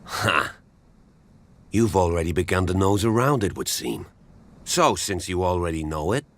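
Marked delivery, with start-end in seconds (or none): 0.1-0.6 scoffing laugh. Acted. Scoffs at remark on Hawkins' debts.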